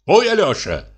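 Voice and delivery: a lightly played husband calling his wife; tipsy husband. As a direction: call up merrily to the window.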